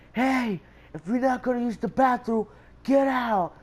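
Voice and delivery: high, loud call to clear out; angry guard's order. Retold or imitated. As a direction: imitate a guard yelling at students. Guard ordering students out, retold.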